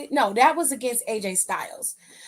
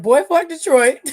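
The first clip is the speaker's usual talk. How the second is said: retold outburst; 4 semitones higher, 9 dB louder than usual. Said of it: "He said".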